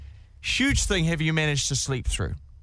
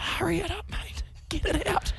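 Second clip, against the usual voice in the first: impatient; 13 semitones higher, 5 dB quieter than usual. Retold or imitated. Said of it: "It's like".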